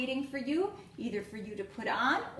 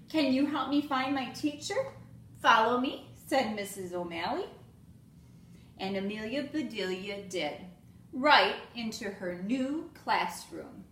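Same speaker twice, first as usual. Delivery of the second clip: lively storybook read-aloud with voiced characters; reading to children; 4 dB louder than usual. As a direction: read it like story time for little kids. Teacher reads picture book aloud.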